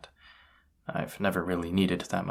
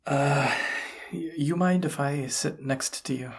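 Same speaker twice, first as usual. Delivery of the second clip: higher, stammered request; hesitate, pitched up, asking a favour awkwardly; awkward, nervous; 7 semitones higher than usual. Acted. Asking to sit next to someone, awkward and nervous.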